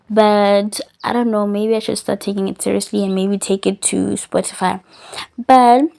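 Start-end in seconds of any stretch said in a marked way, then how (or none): 1.5-5.9 talking while chewing gum; words around a wad of gum. Real, not acted. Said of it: "I'm chewing gum".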